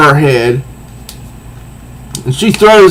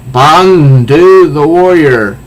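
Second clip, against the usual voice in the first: proud warrior; 3 dB louder, slower than usual. Acted. Villain proclaims name.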